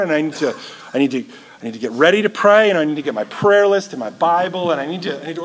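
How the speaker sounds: dithering Peter. Pretend. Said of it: "Imagine if, if Peter had been like".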